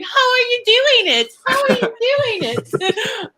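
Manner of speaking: high-pitched Australian accent imitation; mock Aussie accent. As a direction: play Angela baffled, in a high Aussie accent. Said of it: "she just watched them and kept going".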